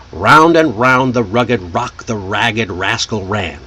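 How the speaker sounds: tongue twister run through fluently at natural speed. Shown as a demonstration. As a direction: roll smoothly through the line like a native speaker. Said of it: "but smoother, faster, just like a native speaker".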